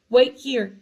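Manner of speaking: loud call. A narrator's reading. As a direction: call it to him. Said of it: "he called to Ron".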